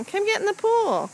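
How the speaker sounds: calling out. Real, not acted. Parent calling to pool.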